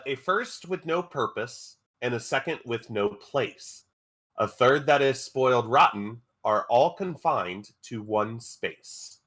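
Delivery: measured, deliberate verse reading; riddle recital. Acted. Game master posing a riddle to players, measured recital. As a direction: read it out line by line, with pauses.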